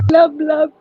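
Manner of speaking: fish blub noise. Pretend. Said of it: "that's the sound you make".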